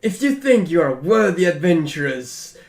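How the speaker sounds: lightly acted herald calling for adventurers; summoning call. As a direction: call out a grand invitation. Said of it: "it was more like".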